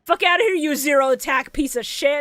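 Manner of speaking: high, loud mocking taunt; mock yell. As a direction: bark it out as a taunt. Acting out the character's taunt.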